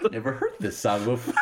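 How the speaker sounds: lightly imitated disbelief through laughter; a touch of baffled disbelief, half laughing; mock incredulity. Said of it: "I love his incredulity".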